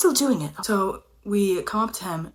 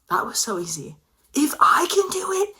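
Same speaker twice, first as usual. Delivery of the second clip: whispered realization; 8 semitones higher than usual. Acted.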